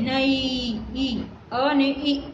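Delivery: "નઈ" slowly drawn out, gliding from a into i; ai vowel demonstration. Shown as a demonstration. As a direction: show how "અ" and "ઈ" join in "નઈ". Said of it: "એ ઈનો ઉચ્ચાર". ("નઈ" માં અ અને ઈનો ધીમો, છૂટો ઉચ્ચાર)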